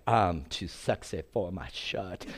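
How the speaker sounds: slow, soft, lightly crooned vanity; lightly hammed-up strutting show-off; mock swagger. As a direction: tease a preening show-off. Mocking visitor's swagger.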